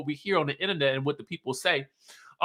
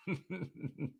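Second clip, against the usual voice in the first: stifled laugh; 14 dB quieter than usual. Real, not acted. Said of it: "this whole scene tickled me pink".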